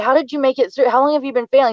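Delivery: can't believe what she's hearing; incredulous mother. Retold or imitated. Mother questioning her failing son.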